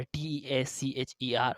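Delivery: slow, careful letter-by-letter spelling. Shown as a demonstration. Teacher spelling a word slowly for learners. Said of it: "टीचर".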